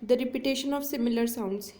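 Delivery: very slow, word by word, like dictating notes; slow dictation. Shown as a demonstration. Teacher dictating a definition to her students, very slow. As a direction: read the definition slowly so students can write it. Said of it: "first of all meaning देखिए".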